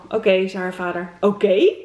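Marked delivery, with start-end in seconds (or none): 1.2-1.7 louder, mock-jubilant cry with a lift; lightly acted whoop of agreement; cheering. A narrator's reading. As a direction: cheer it out as the delighted child. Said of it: "Roos juichend".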